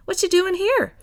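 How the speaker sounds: high, delighted question; Millie voice. A narrator's reading. Millie welcoming Vash, high and delighted. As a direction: greet him with open arms.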